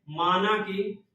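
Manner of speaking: phrase by phrase with long pauses; dictation. Shown as a demonstration. Teacher dictating a mnemonic for Uttarakhand passes, slow chunked dictation. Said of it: "याद कर लीजिए ऐसे".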